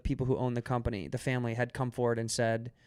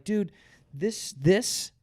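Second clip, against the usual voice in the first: exasperated rant; 3 semitones higher than usual. Pretend. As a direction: rant like you can't believe their hypocrisy. Imagined rant at the bar owners.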